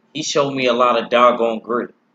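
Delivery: normal talking voice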